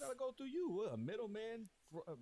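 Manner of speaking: loud, high, fast defiant outburst; excited outburst. Real, not acted. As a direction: fire it off loud and high, refusing any middleman. Defiant rant at YouTube middlemen.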